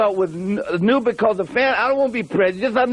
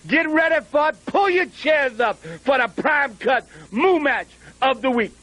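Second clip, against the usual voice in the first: announcer shout; 3 semitones higher than usual. Acted. Hyping the match to fans.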